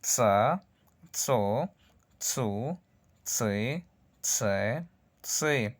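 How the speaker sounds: tsa tso tsu tsi tse each started with a sharp ts; teacher drills the ts sound, syllable by syllable. Shown as a demonstration. Teacher to students, a crisp ts on every syllable. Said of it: "Y vemos".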